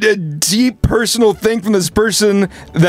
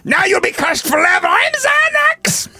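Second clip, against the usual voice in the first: higher, slowing, cursing wizard voice; evil wizard voice; 9 semitones higher than usual. Pretend. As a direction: curse them like a petty evil wizard. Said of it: "That sounds like an evil wizard to me".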